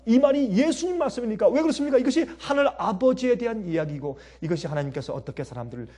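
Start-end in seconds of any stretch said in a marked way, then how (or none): 1.5-2.0 much higher, louder, punch 그렇습니까; emphatic preaching question. Shown as a demonstration. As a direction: hammer the question home. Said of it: "repeated question building".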